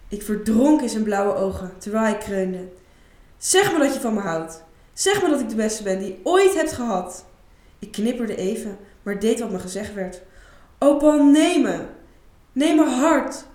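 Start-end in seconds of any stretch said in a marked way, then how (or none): 3.4-7.3 demanding. Acted. Paul demands praise. 10.8-13.5 much higher, louder, slow moaning plea; ecstatic plea. Acted. Isa doing what her client asked, ecstatic moaning plea.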